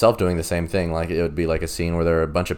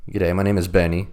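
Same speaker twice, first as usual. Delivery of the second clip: put-on British accent introduction; amateur British accent greeting. Shown as a demonstration. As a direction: introduce yourself in a casual fake British accent. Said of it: "present myself as a British".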